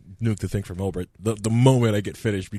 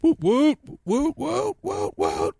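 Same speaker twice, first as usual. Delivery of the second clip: excited cheer; 4 dB louder, much slower than usual. Real, not acted. Celebratory chant.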